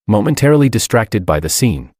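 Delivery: usual speaking voice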